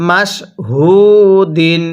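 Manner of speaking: "হু" as a light h from the mouth, vowel held long; correct soft ha. Shown as a demonstration. Teacher showing how it must be read, "হু" light and drawn out. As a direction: say "মাস হু দিন" word by word, "হু" soft and stretched. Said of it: "কিভাবে পড়ব?".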